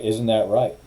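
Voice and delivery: easy, friendly question. Shown as a demonstration. Suggesting how the lawyer could ask, friendly. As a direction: ask it kindly, no edge. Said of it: "you could say it in a friendly way".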